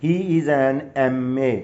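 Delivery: very slow, spelled-out example. Shown as a demonstration. Teacher dictates the example very slowly to students. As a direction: stretch out each letter, M A. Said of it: "مثلاً میں کہتا ہوں".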